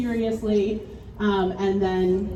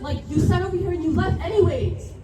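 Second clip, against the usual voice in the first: loud, frantic and higher, voice cracking with panic; panicked friend; 6 semitones higher, 5 dB louder than usual. Acted. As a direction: yell for help over a friend who won't wake. Staged crash, friend panics.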